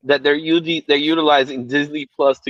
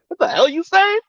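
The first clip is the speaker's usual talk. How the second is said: high, exaggerated New York "what the hell you saying"; hammed-up New York accent; mock New York; 12 semitones higher than usual. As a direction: play the baffled New Yorker. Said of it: "we'd be like".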